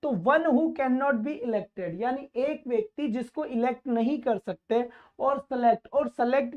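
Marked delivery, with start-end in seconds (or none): 0.1-2.0 very slow, word by word reading; deliberate teacher dictation pace. Shown as a demonstration. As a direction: spell the question out slowly for the class. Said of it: "re-reads question".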